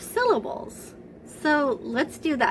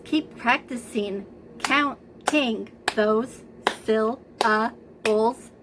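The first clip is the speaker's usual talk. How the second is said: slow clapping; slower than usual. Shown as a demonstration.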